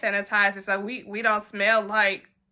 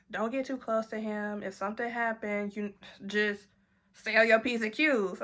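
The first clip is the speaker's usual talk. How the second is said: much softer, hushed warning; whispered warning; 3 semitones lower, 7 dB quieter than usual. Retold or imitated. Chris warning in her ear about Peter, hushed. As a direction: lean in and hush it. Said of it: "he whispered".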